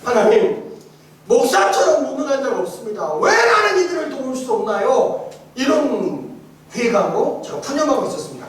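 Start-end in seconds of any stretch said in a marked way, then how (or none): 0.0-5.3 complaining prayer. Retold or imitated. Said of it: "그 자리에 앉아가지고 푸념해요".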